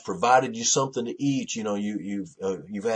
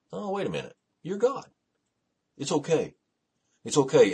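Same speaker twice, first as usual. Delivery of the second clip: dawning reassurance; 7 semitones higher than usual. Acted. David's sudden realisation, acted.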